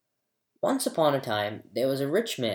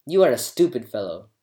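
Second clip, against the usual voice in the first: disbelieving; 3 dB louder than usual. A narrator's reading. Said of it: "shook his head with disbelief and said".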